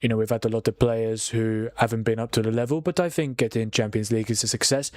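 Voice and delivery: a half-hearted Dutch manager impression; Arne Slot accent. Mocking Liverpool's manager in a faint Dutch accent. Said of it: "best Arne Slot accent I could have done".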